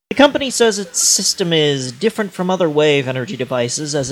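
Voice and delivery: mic held too far from mouth; cutting out. Real, not acted. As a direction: voice fading away from the mic. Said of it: "You are cutting out".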